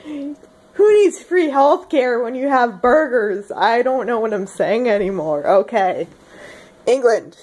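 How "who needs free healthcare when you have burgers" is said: slow, higher, brash American drawl; mock American accent; full American. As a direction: boast with hammed-up American pride. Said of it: "Full freedom powers".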